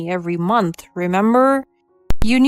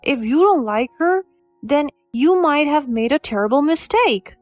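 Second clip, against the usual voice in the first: louder, higher heated husband; angry outburst; 5 semitones higher, 4 dB louder than usual. Acted. Husband defending his mother against his wife, angry. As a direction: hurl it back at her, fed up. Husband shouts back in argument.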